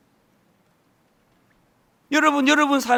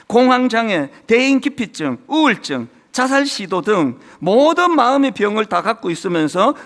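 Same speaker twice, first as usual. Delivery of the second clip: slightly louder, earnest reading of a story; reading aloud; 4 dB louder than usual. Acted. Pastor reads the volunteer's story to the congregation, earnest and a bit louder. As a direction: read the newsletter out to the church.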